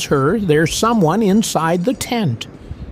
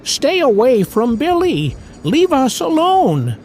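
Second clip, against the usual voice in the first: higher-pitched mild shout, little added volume; understated cry of warning, pitched up; narrated shout; 7 semitones higher than usual. A narrator's reading. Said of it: "comes near the market bat and shouts".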